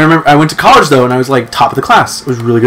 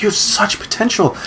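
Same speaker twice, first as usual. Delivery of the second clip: soft, higher imitation of a tearful teacher; hushed, raised retold plea; imitated tearing up; 5 semitones higher, 9 dB quieter than usual. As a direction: plead softly, as if near tears. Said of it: "she just started tearing up".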